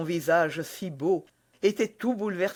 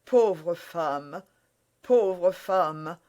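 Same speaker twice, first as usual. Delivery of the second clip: broken murmur; much slower than usual. Acted. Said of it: "murmurait Athos d'une voix brisée".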